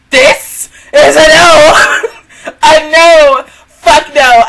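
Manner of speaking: loud, slow, emphatic no; laughing loud refusal. Real, not acted. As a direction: put your foot down, half laughing.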